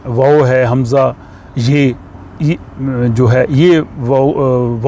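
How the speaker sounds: ordinary talk, nothing marked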